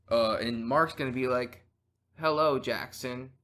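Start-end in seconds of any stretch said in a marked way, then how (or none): 2.2-3.3 slow, stiff robot voice. Pretend. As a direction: speak like a weak robot. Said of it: "I don't have a good robot voice".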